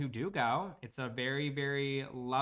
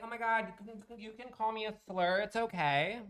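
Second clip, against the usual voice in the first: high, mocking sugary voice; mock a fake-nice streamer; fake sweet and innocent; 7 semitones higher than usual. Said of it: "act all sweet and innocent and be like".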